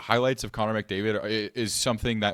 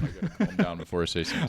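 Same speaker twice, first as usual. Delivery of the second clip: excited; 3 semitones lower, faster than usual. Real, not acted. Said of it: "I'm getting too excited again".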